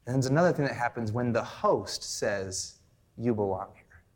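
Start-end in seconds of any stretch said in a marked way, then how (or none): 3.2-4.0 low, calm assurance. Acted. Host telling a doubting guest, calmly reassuring. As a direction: settle the guest with a lower voice.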